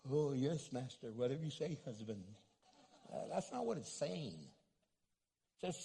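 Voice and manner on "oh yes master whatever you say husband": low, submissive, fading to a murmur; servile doormat wife. Retold or imitated. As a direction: grovel like a servant. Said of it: "That doesn't mean be a slave".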